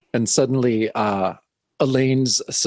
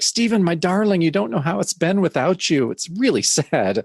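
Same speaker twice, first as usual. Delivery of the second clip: lovesick lunge; 5 semitones higher than usual. Retold or imitated. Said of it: "lunging towards him".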